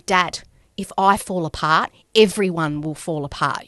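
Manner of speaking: pushing back at her dad; angry. Retold or imitated. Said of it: "I remember getting angry at him".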